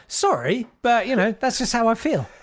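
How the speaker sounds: mock emailer voice. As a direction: ham up the rude emailer's apology. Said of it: "and it was like".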